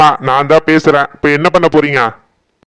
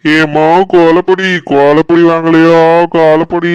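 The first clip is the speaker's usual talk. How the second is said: vendor calling out; 3 semitones higher than usual. Acted. Street vendor calling out wares. (கூவி விற்கும் வியாபாரி குரல்)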